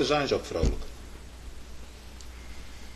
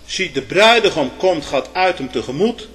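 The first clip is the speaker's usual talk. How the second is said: heralding call, loud at first; strong announcing cry from the pulpit; archangel's cry; 4 semitones higher, 6 dB louder than usual. Acted. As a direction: proclaim it like an archangel's summons. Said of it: "Als de stem van de archangel".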